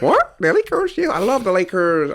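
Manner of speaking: high, astonished footballer impression; hammed-up excited foreign English; Mbappe. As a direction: start squeaky with disbelief, settle into gushing. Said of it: "When he's speaking English".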